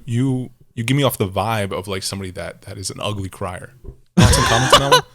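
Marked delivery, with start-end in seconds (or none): 4.2-5.0 loud, higher, cracking up while asking; barely holding the laugh in. Real, not acted. Teasing a friend as an ugly crier, laughing.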